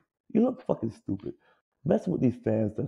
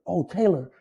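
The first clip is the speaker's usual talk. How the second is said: high, jeering fan shout; imitating heckling fan; 8 semitones higher, 4 dB louder than usual. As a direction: taunt him from the stands. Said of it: "they call me Taylor".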